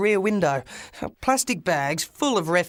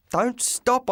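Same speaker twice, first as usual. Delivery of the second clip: yelled; 7 semitones higher than usual. Acted. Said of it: "I yelled".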